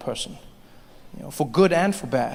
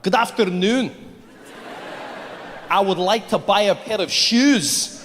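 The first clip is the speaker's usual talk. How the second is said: put-on Scottish accent, slow and a bit louder; 4 semitones higher, 4 dB louder, slower than usual. The speaker in an Edinburgh shop, slow put-on Scottish accent. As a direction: try to pass as a local with a Scottish accent. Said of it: "learn the Scottish accent".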